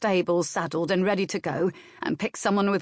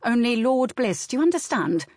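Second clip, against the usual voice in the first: sharp orders; 3 semitones higher than usual. Acted. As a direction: drive the message home, sharp and firm. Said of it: "saying sharply".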